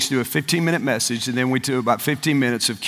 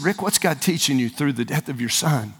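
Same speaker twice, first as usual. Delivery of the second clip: gentle question; 2 semitones lower, 5 dB quieter than usual. Retold or imitated. Retells gentle question to grieving father.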